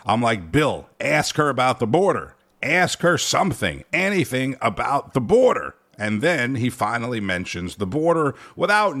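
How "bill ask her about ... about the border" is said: mildly raised, punchy plea to the TV; mock exasperated yell, not full volume; retold yelling at TV. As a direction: urge the interviewer on, hammering each phrase. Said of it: "I'm literally yelling at the T V".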